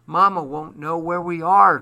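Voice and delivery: put-on high, loud child's protest; crying out. A narrator's reading. Paul protesting leaving Mama behind, crying out. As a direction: cry it out, pitched well up. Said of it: "cried Paul".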